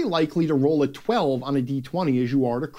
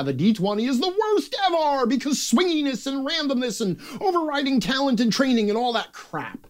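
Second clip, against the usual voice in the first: high-pitched mocking whine; mock moaning; 9 semitones higher than usual. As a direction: imitate gamers griping, pitched way up. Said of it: "loves to piss and moan".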